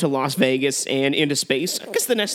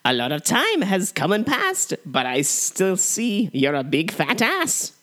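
slow, drawn-out villain rhyme; hammy stage actor; 3 semitones higher, slower than usual. Acted. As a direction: relish every word like a stage villain. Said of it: "we'll quote this film back and forth".

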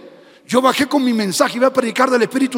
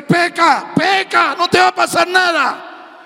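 mock Satan tempting; 7 semitones higher than usual. Preacher to the congregation, voicing Satan tempting, raised and coaxing. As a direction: tempt them like the devil would. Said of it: "Satanás te dice".

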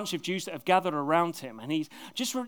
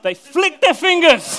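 loud laughing shout, much higher; real laughter at his own mistake; laughing blunder; 10 semitones higher, 15 dB louder, slower than usual. Real, not acted. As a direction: burst out laughing at the slip. Laughing slip in reading.

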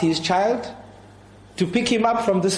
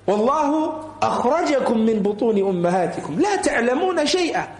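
rapid Arabic verse recited in one breath; Quran recitation; 3 semitones higher, much faster than usual. Acted. Preacher quoting the Quran to parents, quick recitation. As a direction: recite the ayah quickly and evenly.

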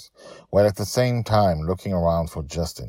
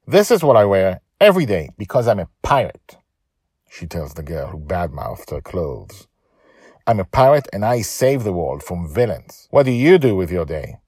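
put-on young girl defiant; 3 semitones higher, 7 dB louder than usual. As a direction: stand up to them. Joy answers bullies.

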